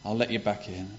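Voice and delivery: grudging, reluctant sigh of a welcome; a father pretending to be put out; begrudging. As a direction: let him in as if it's a chore. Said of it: "sort of begrudgingly and say".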